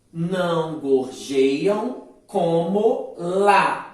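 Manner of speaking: very slow, spaced poetic syllables; slow scansion. Shown as a demonstration. Teacher scanning the second verse for the class, slowly. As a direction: beat out "Onde canta" syllable by syllable. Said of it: "Percebam só a divisão poética".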